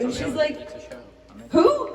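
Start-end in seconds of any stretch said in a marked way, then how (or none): 1.5-1.9 very high-pitched puzzled squeak; high, comic one-word query; mock cluelessness. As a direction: imitate a clueless reply, pitched way up. Cousin's reply about forgotten husband.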